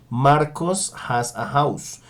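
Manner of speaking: slow, careful English for learners; slow model sentence. Shown as a demonstration. Teacher slowly models has with an example. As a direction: say each word slowly. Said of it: "dos ejemplos adicionales".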